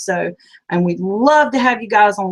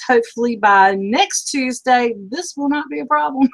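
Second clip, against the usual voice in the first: squeaky voice; 3 semitones higher than usual. Real, not acted. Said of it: "excuse my squeaky voice".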